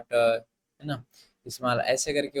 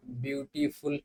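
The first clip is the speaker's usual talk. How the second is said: ब्यूटीफुल said with a slight hitch before फुल; ब्यूटीफुल, demonstrating a small break inside the word; slight syllable break; 5 dB quieter than usual. Shown as a demonstration. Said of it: "अर्थात रुकना पड़े".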